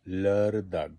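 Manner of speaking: teacher sounding out লারদাগ for the Saturday word; Swedish word demo. Shown as a demonstration. Teacher to Bengali learners, demonstrating লারদাগ. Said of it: "শনিবার হলো".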